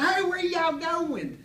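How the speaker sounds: very high, loud, drawn-out country holler; hammed-up small-town character voice; Gene Rader. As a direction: imitate an eccentric local calling out, stretched and high. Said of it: "He talked like this".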